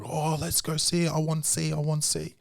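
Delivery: put-on high little kid voice, eager; imitating toddler. Dad imitating his toddler begging to see digger. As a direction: pitch up like a excited toddler.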